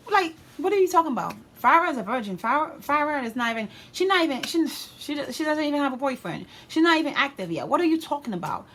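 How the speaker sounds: high-pitched, animated protest; incredulous mom. Retold or imitated. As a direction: imitate a mother indignantly defending her daughter. Mom protesting the news, acted out.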